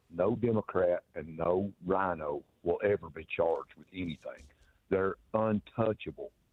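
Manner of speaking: very slow, deliberate, spelled-out plain delivery. A caller making a point on the line, slow and plain. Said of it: "as slow and as plain as I can say it".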